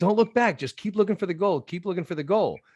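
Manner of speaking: very high-pitched yelling. Retelling calling out to kids at a son's rugby practice: imitating own yelling. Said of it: "And I'm yelling".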